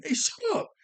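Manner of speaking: very high, loud mock heckling; hammed-up squeaky shout-down; arguing crowd shout. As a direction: yell back like a heckler in a squabbling crowd. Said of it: "crowd starting to argue amongst themselves".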